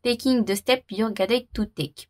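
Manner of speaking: French-accented English, slowing down; careful English with French accent. Real, not acted. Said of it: "faites pas attention à mon accent".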